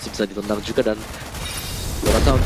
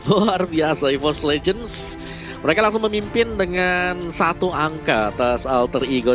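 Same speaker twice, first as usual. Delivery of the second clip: excited; 4 semitones higher, slower than usual. Real, not acted. Caster celebrates game win.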